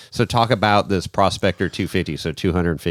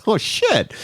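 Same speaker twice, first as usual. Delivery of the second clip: higher, mock-alarmed oh shit; retold alarm; 14 semitones higher than usual. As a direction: replay the jolt of bad news, pitched up. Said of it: "I go".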